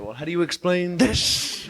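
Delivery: triumphant dad. Retold or imitated. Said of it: "your father pulls some incredible proof".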